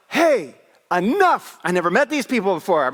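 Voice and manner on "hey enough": a high, loud commanding shout, stretched out; yell. Retold or imitated. Pastor shouting down at quarreling strangers, loud yell. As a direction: bellow down to stop a fight below. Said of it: "So I yell".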